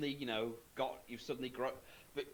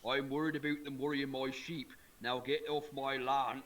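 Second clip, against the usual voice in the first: Farmer Palmer voice. Retold or imitated. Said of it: "he keeps saying".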